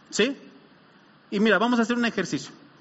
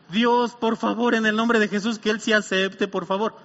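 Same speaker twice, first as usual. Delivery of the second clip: ruego cortés. Shown as a demonstration. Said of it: "No dije eso".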